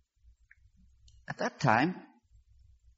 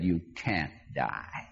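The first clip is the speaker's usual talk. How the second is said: calm sweet voice; 6 semitones lower, 6 dB quieter, much slower than usual. Retold or imitated. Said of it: "That voice said".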